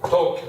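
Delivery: "Toque" with a firm first syllable; stress on first syllable. Shown as a demonstration. Teacher showing which vowel stays stressed, "Toque" stressed on its first syllable. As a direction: hit the "To" of "Toque". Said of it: "toque is where I have to keep that stress".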